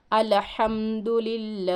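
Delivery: अल्हम्दुलिल्लाह with a thin, light lam in लिल्लाह. Shown as a demonstration. Teacher shows the student the thin lam in अल्हम्दुलिल्लाह. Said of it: "इसको बारीक पढ़ेंगे".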